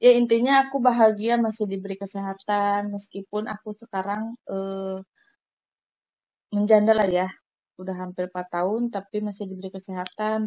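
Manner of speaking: talking while smoking; words around a cigarette; cigarette in mouth. Real, not acted. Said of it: "Aku sambil ngerokok ya, guys".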